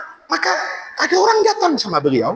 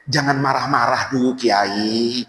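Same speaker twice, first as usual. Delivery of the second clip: calm seller voice; slower than usual. Acted. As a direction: talk the angry cleric down gently. Seller calming the angry imam.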